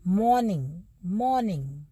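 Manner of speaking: मॉर्निंग with the r almost silent; soft r sound. Shown as a demonstration. Teacher demonstrating the soft r, lightly. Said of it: "ओआर की sound को कैसे बोलना".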